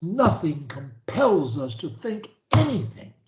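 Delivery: measured phrase to repeat; dictating. Shown as a demonstration. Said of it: "say after me".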